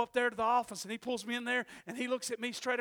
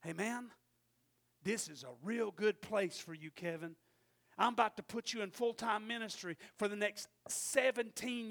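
voice of God. Retold or imitated. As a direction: speak it gently as God. Voicing God speaking to him.

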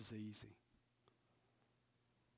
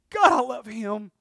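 building declaration; 3 semitones higher, 10 dB louder than usual. Acted. Build from whisper.

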